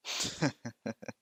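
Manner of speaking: soft chuckle before answering; acted chuckle. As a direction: laugh softly to yourself. Character chuckles before confident reply.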